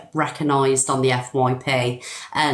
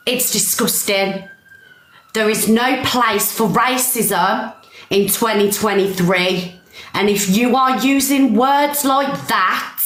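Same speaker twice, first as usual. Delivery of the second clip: real angry rant, pitched up; fuming; 3 semitones higher than usual. Real, not acted. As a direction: lay down the law, fuming. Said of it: "I'm fuming".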